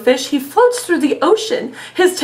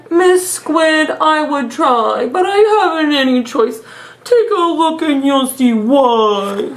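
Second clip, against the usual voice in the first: lightly voiced mopey fish. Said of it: "doing the silly voices".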